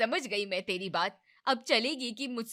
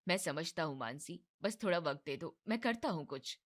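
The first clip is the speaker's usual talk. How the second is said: reassuring; 2 semitones lower, 5 dB quieter than usual. Acted. Husband calming wife again.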